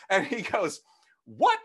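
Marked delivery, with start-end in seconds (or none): 1.2-1.6 high, loud shocked question; upset priest. Retold or imitated. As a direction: imitate an appalled priest's outburst. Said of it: "he got upset".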